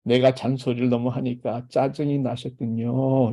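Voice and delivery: a wife answering her husband with gentle empathy. Shown as a demonstration. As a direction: calmly acknowledge the husband's irritation. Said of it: "이게 공감입니다".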